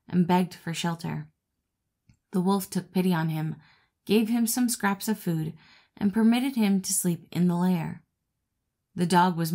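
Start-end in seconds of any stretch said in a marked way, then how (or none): none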